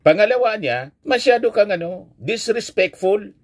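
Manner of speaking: high-pitched retelling of a telling-off; mildly indignant, high-pitched mock scolding; retold scolding. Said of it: "pinagsabihan siyang harap-harapan".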